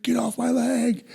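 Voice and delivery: high, drawn-out fake agony; high mock wail, stretched out; mock cry of pain. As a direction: wail it as if pinned under a car. Buddy fakes being run over.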